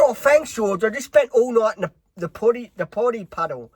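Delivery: high, loud indignant voice; hammed-up hurt protest, high and loud; Carl protesting. Carl answering Georgia after a night stuck, high indignant. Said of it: "She said".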